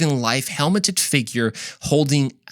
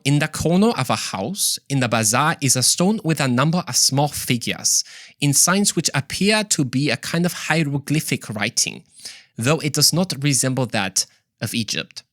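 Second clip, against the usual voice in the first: attempted Swiss accent. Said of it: "How was that?".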